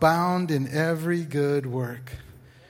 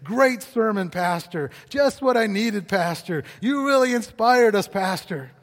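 gushing churchgoers; 4 semitones higher, 5 dB louder, slower than usual. Acted. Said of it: "they'd say".

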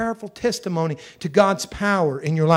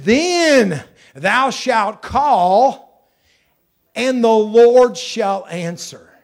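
slow, weighty reading of the verse; slow solemn scripture read; much slower than usual. Acted.

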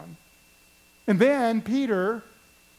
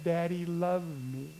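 put-on soft, slow little girl answer; a child's quiet, sure reply; small child; 3 semitones lower, 5 dB quieter, slower than usual. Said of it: "And she said".

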